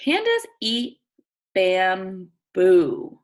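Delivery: bamboo said clearly and firmly; model the word. Shown as a demonstration. Teacher modeling bamboo before the class repeats it. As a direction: read bamboo out so the class can echo it. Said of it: "Can you say bamboo?".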